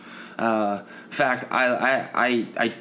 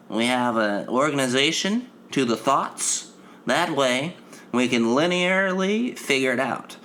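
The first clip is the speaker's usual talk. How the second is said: lightly voiced nerdy white guy; a hint of a nerdy nasal nerd. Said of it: "the black man, white voice".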